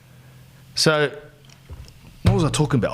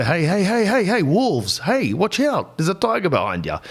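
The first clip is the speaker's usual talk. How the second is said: mock alarm; 4 semitones higher than usual. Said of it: "to let people know".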